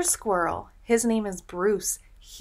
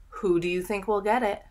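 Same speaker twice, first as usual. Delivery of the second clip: excited suspense; faster than usual. Acted. Gasp before suspense question.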